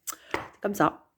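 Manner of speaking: a slow, solemn hint of the president; imitating Macron. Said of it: "Macron, il a dit".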